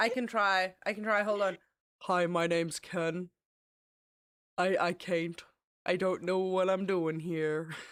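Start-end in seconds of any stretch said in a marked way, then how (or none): 2.0-7.7 deep, unhurried voice. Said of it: "try to do the Ken voice".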